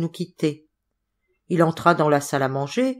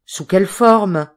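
slow, louder, worried ask; anxious question; 7 dB louder, slower than usual. Acted. The narrator asking his friend how the blow came, anxious. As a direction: press for the news, uneasy and slow. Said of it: "demandai-je avec anxiété".

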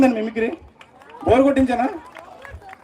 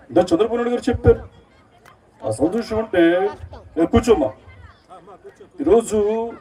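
halting political stage speech in short phrases; Pawan Kalyan. Acted. Deputy CM speaking at a public meeting, halting oratory. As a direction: address the crowd in measured bursts, with pauses between phrases. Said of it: "బయట meeting ఉన్నప్పుడు ఆయన voice ఎలా ఉంటుందంటే".

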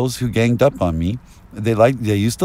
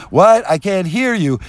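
high, loud burst on the first word; mock calling out; 6 semitones higher, 3 dB louder than usual. Mimicking listeners on a crackling phone, mock calling out. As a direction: imitate someone straining through a bad phone line.

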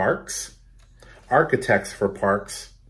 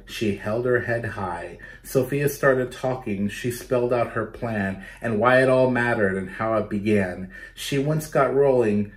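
steady read-aloud storytelling voice; story narration. A narrator's reading. Teacher reading a picture book to children, lively narration. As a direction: read it like story time for kids.

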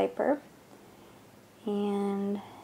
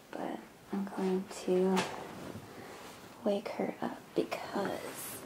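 soft, breath-heavy near-whisper; hushed; 8 dB quieter than usual. Real, not acted. Mom to camera before waking her child, hushed.

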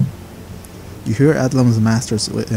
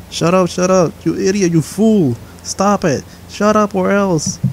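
high, harsh angry outburst; snarling fury; 8 semitones higher than usual. Acted. Power lashing out at the master in rage. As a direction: spit the insults out. Possessed voice lashes out.

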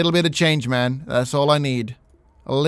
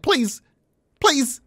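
higher, wheedling please; pleading beggar; 10 semitones higher than usual. Acted. Beggar pleads with a stranger for change, wheedling. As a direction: beg sweetly. Begging passersby.

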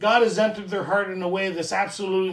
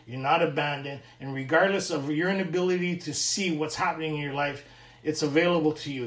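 sincere reassurance; 3 semitones lower than usual. Retold or imitated. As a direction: comfort a stranger who feels abandoned. Reassuring the crying newcomer.

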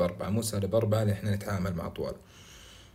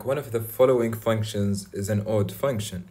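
slow reading; much slower than usual. Shown as a demonstration. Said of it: "السؤال اللي بعده يقول لك".

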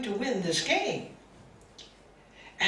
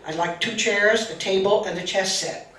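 commanding abbot; 7 dB louder than usual. Retold or imitated. Abbot orders the monks.

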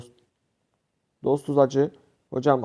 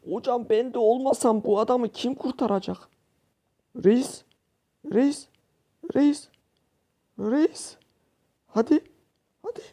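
excited cheering; 9 semitones higher, 4 dB quieter than usual. Real, not acted.

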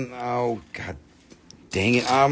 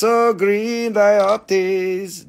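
admiring; 4 semitones higher, 4 dB louder, much slower than usual. Real, not acted. Seller gushing over green gem.

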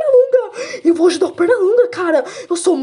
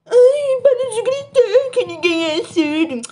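higher, slow whiny scold; 5 semitones higher, slower than usual. Acted. Scolds the friend again, higher and slower. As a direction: drag out the complaint.

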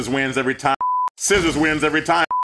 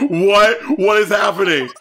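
surprised; 6 semitones higher, 5 dB louder than usual. Real, not acted. Startled by the screen.

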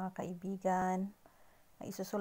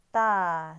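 "Ta," punched out loud; emphatic ta; 8 dB louder than usual. Shown as a demonstration. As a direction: hit "Ta," hard once more. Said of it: "that's all for today".

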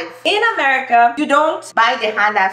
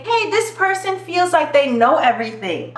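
higher-voiced American accent; 4 semitones higher than usual. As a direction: put on an American complainer, pitched up. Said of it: "Americans would say".

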